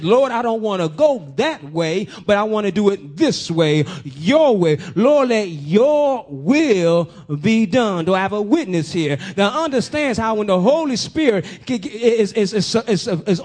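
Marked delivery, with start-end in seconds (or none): 0.0-8.1 prayer. Retold or imitated. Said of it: "You said".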